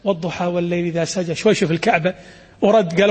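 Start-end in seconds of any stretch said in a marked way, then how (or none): 0.0-1.3 mock hushed recitation, softer and lower; a hint of secret, hushed reciting; under his breath. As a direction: recite it quietly as if to himself. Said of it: "وشوي شوي كذي قال بينه وبين نفسه".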